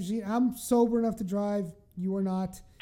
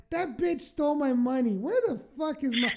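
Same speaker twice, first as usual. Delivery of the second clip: a touch higher, laughing through the curses; mock the drunk accusation; laughing drunk rant; 4 semitones higher than usual. Friend mocking her drunken accusation, laughing.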